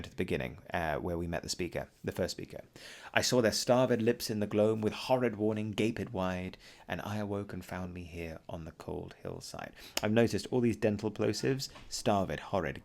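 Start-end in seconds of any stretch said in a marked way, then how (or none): 3.1-9.7 ballad verse read aloud to a class; poem reading. Acted.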